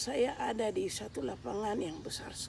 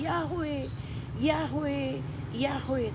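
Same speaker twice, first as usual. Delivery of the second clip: calling out the name; 4 semitones higher, much slower than usual. Retold or imitated. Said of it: "lalu saya panggil".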